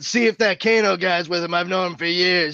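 lightly imitated Brooklyn tough guy; Brooklyn accent. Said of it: "I don't know why he was from Brooklyn".

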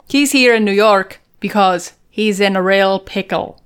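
halting, badly faked Scottish; unconvincing Scottish accent; attempted Scottish accent. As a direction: have another shaky go at Scottish. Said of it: "I don't know how to do a Scottish accent".

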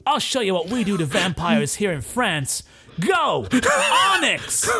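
shouted cartoon-hero command, rising high; hammed-up battle cry; monster trainer. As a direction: call the creature into battle. Monster trainer sends out his creature.

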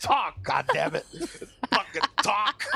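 acted-out frustrated plea; exasperated demand. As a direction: order her to speak, drawing out each word. Acts out yelling at silent girl.

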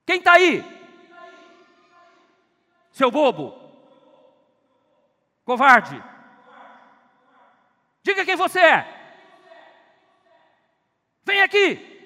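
terrified son shouting in a cave; frightened boy shouting. Acted. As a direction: scream at the unseen stranger in the dark. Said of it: "E ele gritou assim".

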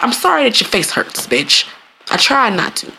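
backhanded sorry. Acted. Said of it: "That's a backhanded sorry".

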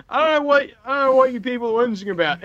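high, fast mock indignation; mock outraged rant. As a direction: rant it in playful disbelief.

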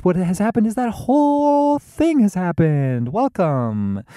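high, loud mock show opening; hammed-up intro. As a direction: build it big like a silly welcome.

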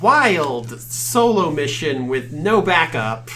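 slow, puzzled elf voice; confused elf. Acted. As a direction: drawl it out like a lost elf. Elf NPC continues speaking.

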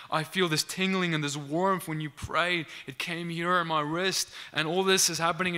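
lively imitation of an excited man; excited testimony. Healed man explains what he felt during prayer, mildly acted excitement. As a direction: retell it with a touch of wonder and excitement. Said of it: "he's so excited".

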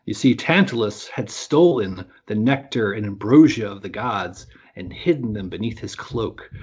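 measured, dramatic storytelling voice; epic fantasy narrator. A narrator's reading. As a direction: tell the myth like an epic saga. Reads a myth aloud as storyteller.

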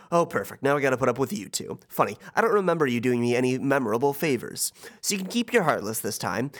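Hades voice. Acted. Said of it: "Hades says".

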